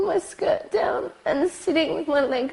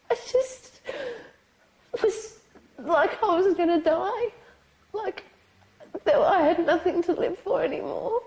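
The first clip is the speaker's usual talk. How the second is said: tearful; 5 semitones higher than usual. Real, not acted. Survivor still crying mid-account.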